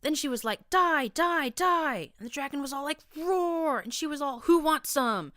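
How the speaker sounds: put-on young mare gushing to her friends, shrieking with glee; gleeful shriek. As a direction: gush like a thrilled kid retelling a battle. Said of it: "Sonata shrieked as she bounced in glee".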